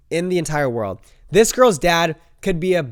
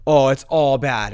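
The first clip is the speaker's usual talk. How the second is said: loud, panicky retelling of a friend; mimicking his panic; 5 dB louder than usual. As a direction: play the freaked-out friend, talking loud and fast. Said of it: "she said".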